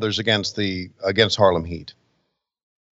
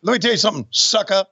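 higher, fast trash-talking promo; Booker T impression; 5 semitones higher than usual. Parodying Booker T yelling at Mean Gene, brash trash talk. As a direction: cut a brash wrestling promo, talking down to him. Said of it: "What do you think Booker T's saying here?".

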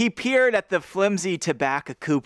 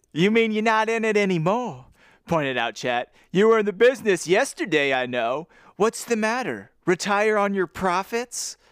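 teasing Chet voice; 5 semitones higher than usual. Acted. Reading Chet teasing the boys.

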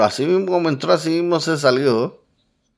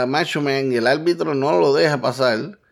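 usual speaking voice

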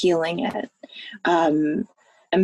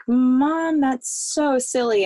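lightly voiced kid, higher pitch; drawn-out, fond dismissal of a parent; mock child protest; 5 semitones higher, much slower than usual. Daughter retelling her reply to mom, lightly childlike protest.

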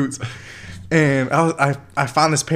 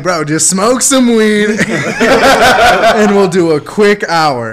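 laughing; 7 semitones higher, 8 dB louder, much slower than usual. Retold or imitated. Laughing pitch to a friend.

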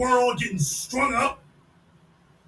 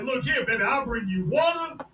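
mock eager suitor; 5 semitones higher than usual. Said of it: "He's like".

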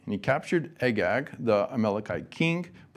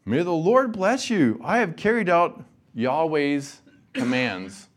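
higher, louder, bright welcome, slowing on the second line; cheerful greeting; 6 semitones higher, 4 dB louder than usual. A narrator's reading. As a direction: greet him with eager cheer. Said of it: "Saul greeted him cheerfully".

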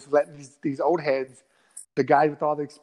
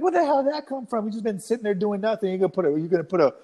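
higher-pitched, baffled protest; indignant disbelief; 4 semitones higher than usual. Retold or imitated. Fighter reacting to a sudden four-punch combo, indignant disbelief. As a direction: act out being caught off guard, pitch jumping up.

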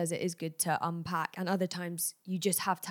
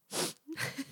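sniff; 9 semitones higher, 8 dB quieter than usual. Real, not acted. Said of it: "little sniff down the mic".

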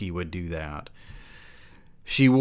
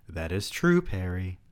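read as written. Acted. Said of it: "Wow, amazing dialogue".

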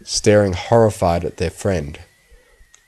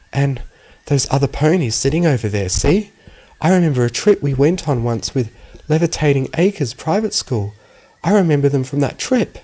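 higher voice, mildly shocked; 6 semitones higher than usual. A narrator's reading. Aora spotting ponies from a school trip, mildly shocked. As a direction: pitch it up as startled recognition. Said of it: "sounding shocked".

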